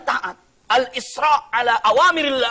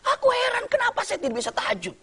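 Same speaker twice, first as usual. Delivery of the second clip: lament; 14 semitones higher than usual. Acted. Imam lamenting to his wife.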